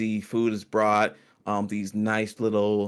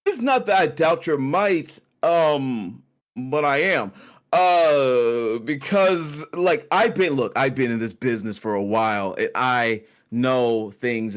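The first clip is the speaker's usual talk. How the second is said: lightly voiced mercenary. GM voicing Corwin warning party.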